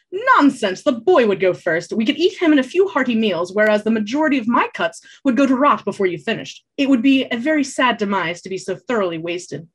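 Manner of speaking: loud, high mock outrage; indignant bard. Bard arguing who gets eaten, hammy outrage. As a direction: protest with hammed-up indignation.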